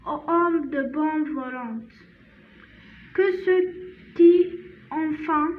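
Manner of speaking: slow, measured French recitation with long pauses; poem read-aloud. Shown as a demonstration. Teacher reads a Christmas poem to learners, slow careful recitation. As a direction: read it out phrase by phrase, slowly.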